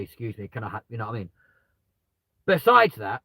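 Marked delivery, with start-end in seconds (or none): 0.0-0.8 polite ask. Retold or imitated. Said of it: "asking him very politely".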